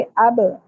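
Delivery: अब with the final b released in an echo; bouncing qalqala. Shown as a demonstration. Teacher demonstrates qalqala, bounced final b. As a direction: press lips, then pop the end of अब. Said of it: "मखरज पे रख के छोड़ देंगे आवाज".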